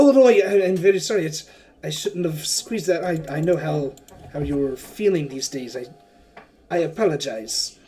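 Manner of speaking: backpedal, embarrassed after the squeeze; flustered apology. Acted. Wakanga apologizes to Sinjara for squeezing too hard, flustered. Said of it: "He's like".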